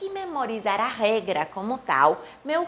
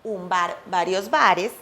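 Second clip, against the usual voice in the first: "vários bares" said the Spanish way, "b" start and a clipped "bare"; pronúncia espanhola; Spanish pronunciation; 3 semitones lower, 3 dB louder, slower than usual. Shown as a demonstration. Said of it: "Em espanhol também dizemos".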